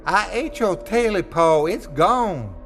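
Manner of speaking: high, defiant yell; Smitty yelling at the creature on his chest. Acted. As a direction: yell the confession up at it. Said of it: "Smitty yelled".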